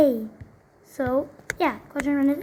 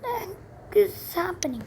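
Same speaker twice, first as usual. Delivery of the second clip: high, bewildered ask; startled question; 5 semitones higher, 4 dB quieter than usual. Real, not acted. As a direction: ask it still thrown by the noise. Startled by dogs barking outside.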